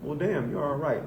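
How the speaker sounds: slow, lightly put-on Southern drawl; a light Southern country drawl, easy and slow; mild Southern accent voicing the racist. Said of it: "That's why I'm using that accent".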